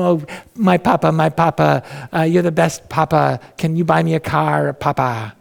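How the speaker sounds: a light, mock-sweet child's voice coaxing papa; hint of a charming kid begging for a car; sweet-talking kid. Child sweet-talking papa for a car, lightly voiced wheedling. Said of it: "They're just so sweet and nice".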